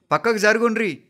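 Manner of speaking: high, loud order to move; shouting. A narrator's reading. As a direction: yell at the crowd to step aside. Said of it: "అంటూ అరుస్తున్నారు".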